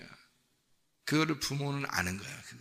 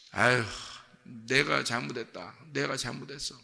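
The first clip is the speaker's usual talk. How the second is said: self-blaming parent. Acted. Parent to a child back from trouble, rueful self-blame. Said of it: "이런 마음이 들죠".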